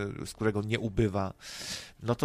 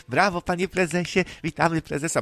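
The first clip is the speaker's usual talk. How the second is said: mock fawning; 6 semitones higher, 4 dB louder than usual. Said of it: "Będę się podlizywał panu prezesowi".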